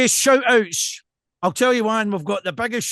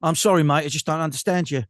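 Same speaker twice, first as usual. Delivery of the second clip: mock English apology, lightly voiced; English accent; 3 semitones lower than usual. Baffled listener apologising to mate, mock English accent. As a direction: imitate an Englishman politely not understanding. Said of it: "the English are really good at that".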